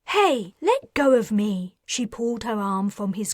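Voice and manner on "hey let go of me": loud, high, indignant yell; angry shout. Acted. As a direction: shout to be let go. Man grabs her arm.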